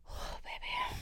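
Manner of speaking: very high, soft sympathetic cry. Real, not acted. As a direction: squeak it out in sorrow. Sigh after sad movie quote.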